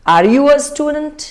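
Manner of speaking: slow, high rising end on student. Shown as a demonstration. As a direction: let the last part go up. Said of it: "rising tone आने चाहिए". (आखिरी हिस्सा ऊपर जाए, धीरे से)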